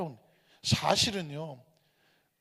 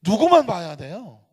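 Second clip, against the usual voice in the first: ordinary talk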